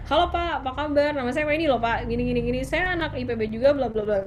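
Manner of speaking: upbeat, sure self-introduction to a senior official; confident. Retold or imitated. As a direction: introduce yourself boldly and eagerly. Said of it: "kelihatan confidence-nya".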